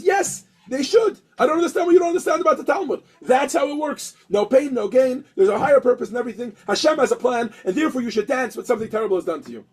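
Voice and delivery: impatient teacher hammering the point home; a rabbi losing patience with his student; exasperated rabbi. Acted. Rabbi insists to doubting student.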